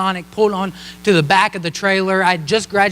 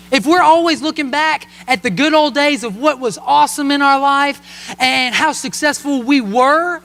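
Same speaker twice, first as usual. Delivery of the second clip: preaching; 3 semitones higher than usual. Acted. Pastor urging the congregation to look forward, rising preaching. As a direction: press the lesson home to the congregation. Pastor applies story to life.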